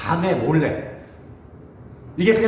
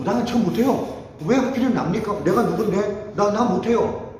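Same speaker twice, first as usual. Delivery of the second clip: higher-pitched flustered protest; imitated reluctant objection; acted-out refusal; 5 semitones higher than usual. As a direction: back out of it, pitched up. Acting Gideon refusing God's call.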